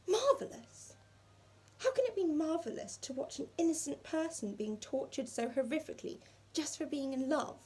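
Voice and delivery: high, outraged cry of disbelief; furious and appalled; fuming. Acted. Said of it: "Imelda was fuming now".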